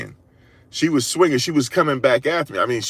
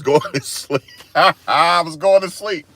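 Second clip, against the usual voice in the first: high voice breaking into laughter; laughing; 7 semitones higher, 3 dB louder, slower than usual. Real, not acted. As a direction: crack up while telling it. Cracks up at own story.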